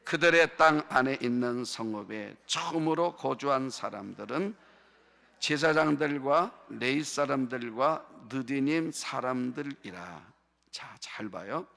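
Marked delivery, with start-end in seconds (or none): 0.0-10.3 steady, measured scripture reading; reading in unison. Real, not acted. Preacher leads congregation reading a verse together, measured unison reading. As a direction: read the verse out for all to follow. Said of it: "다 같이 한 목소리로 시작".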